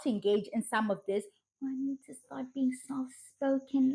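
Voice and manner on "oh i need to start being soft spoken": mock trad wife. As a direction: parody a demure trad wife. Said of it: "all the trad wives speak like this".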